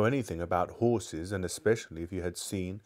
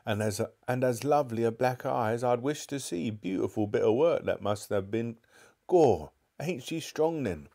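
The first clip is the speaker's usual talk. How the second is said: admiring cockney bystander; 3 semitones higher than usual. Acted. Bystander admiring the shopkeeper's black eye, cockney and gleeful. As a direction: relish the black eye, slowing at the end.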